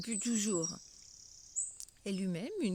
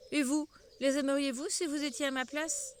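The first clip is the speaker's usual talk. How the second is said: souris en colère; 5 semitones higher, 4 dB louder than usual. Acted. La souris furieuse continue.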